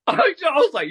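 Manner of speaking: a real laugh spilling into the words. Real, not acted. Laughing while retelling scare.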